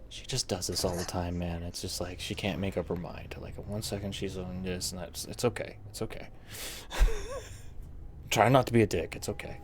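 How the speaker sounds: quiet aside. Acted. Officer Grayson leans over to the adventurers, hushed muttered aside. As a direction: keep it low so she can't hear.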